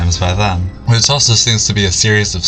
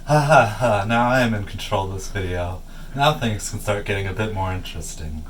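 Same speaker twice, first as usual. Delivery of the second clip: mad scientist; 8 dB quieter than usual. Acted. Villain gloats about taking control.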